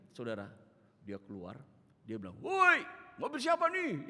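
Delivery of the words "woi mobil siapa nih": high, loud, drawn-out mock yell; curt neighbour. Grumpy old woman challenges the pastor over a parked car, hammed-up yell. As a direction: holler like a cranky old neighbour. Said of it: "ketus sekali".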